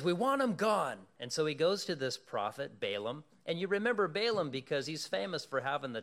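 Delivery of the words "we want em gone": voicing the king. King demands in Bible story.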